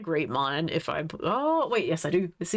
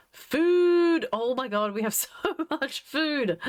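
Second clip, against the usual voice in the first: excited; 7 semitones higher than usual. Real, not acted. Streamer thrilled at so much food shared, excited outburst. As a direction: squeal it out high, breaking into a laugh midway.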